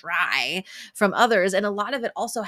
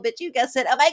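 1 laughing shout; 6 semitones higher, 5 dB louder, much faster than usual. Real, not acted.

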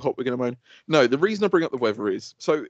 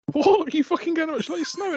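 mock exclamation; 12 semitones higher than usual. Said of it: "I was like".

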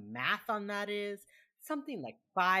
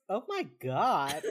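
imitated slow, louder exasperation; exasperated reaction; 5 dB louder, slower than usual. Emily turning around at Rossi's reply, mock exasperated. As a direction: drag it out in mock disbelief.

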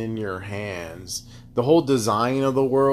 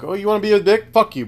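high mock snap, a bit louder; retold angry retort, pitched up; snapping back; 6 semitones higher, 3 dB louder, faster than usual. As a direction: bite back at someone rude.

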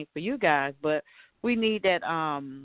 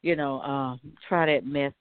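sassy eye-roll. Retold or imitated. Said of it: "roll their eyes or look at you like".

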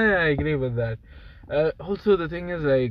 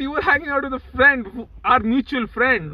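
mock accusing; 7 semitones higher, 3 dB louder than usual. Accusing friend of excluding him.

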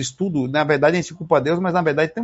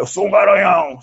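proud, louder bragging; boastful stud brag; 3 semitones higher, 4 dB louder than usual. Retold or imitated. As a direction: puff up and boast. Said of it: "por mais que você fale".

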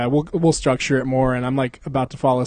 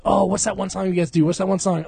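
gushing fan; 4 semitones higher than usual. Acted. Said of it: "I was like".

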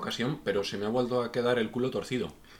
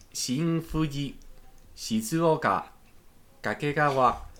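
station names read high and louder in a put-on Japanese accent, each name spaced out; 5 semitones higher, 3 dB louder, slower than usual. Reading the Tokaido stations to his co-hosts in a mock Japanese accent. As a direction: announce each stop like a proud Japanese conductor. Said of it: "en perfecto acento japonés".

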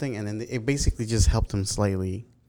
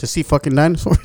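breathing hard into the mic; loud breaths through the nose; heavy nose breathing; 5 semitones higher, 8 dB louder than usual. Real, not acted. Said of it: "Quit breathing into the mic".

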